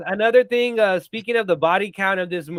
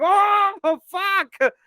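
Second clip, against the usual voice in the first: high, louder mock-shocked exclamation; hammed-up astonishment, pitched way up; shocked reaction; 12 semitones higher, 4 dB louder than usual. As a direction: blurt it out high, replaying the shock. Retells own shocked reaction to film.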